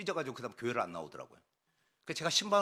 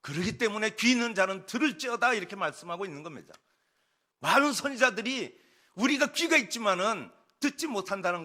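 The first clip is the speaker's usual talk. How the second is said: raised, louder sermon voice; forceful preaching; 6 semitones higher, 6 dB louder than usual. Acted. Preacher urging the congregation to listen, forceful. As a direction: press each phrase home from the pulpit.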